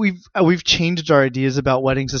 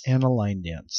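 low echo; 7 semitones lower, 6 dB quieter than usual. Pretend. Partner echoes lower.

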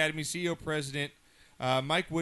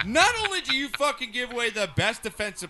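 loud, higher, heated tirade; shouting sports rant; angry rant; 5 semitones higher, 5 dB louder than usual. Real, not acted. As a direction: tear into the team. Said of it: "I'm gonna go a little John Gruden rant here".

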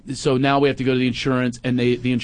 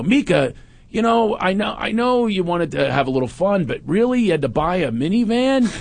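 1 mock complaint; 6 semitones higher than usual. Dad fakes a complaint to wife.

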